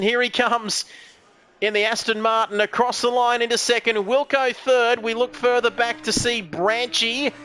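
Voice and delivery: projected play-by-play, placings rung out; live race commentary. Real, not acted. Commentator calls the Aston Martin into second, live race commentary. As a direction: call each car across the line. Calls cars over the line.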